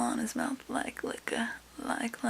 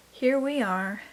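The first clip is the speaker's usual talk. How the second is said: hushed late-night whisper. Real, not acted. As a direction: whisper so parents don't wake. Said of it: "this weird whisper voice".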